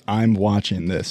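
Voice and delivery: slow. Pretend.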